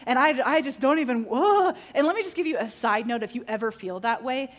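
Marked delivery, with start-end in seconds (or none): 1.3-1.7 loud, high groan of dismay; frustrated groan. Retold or imitated. Retelling embarrassment among praying friends, exasperated groan. Retold self-conscious frustration.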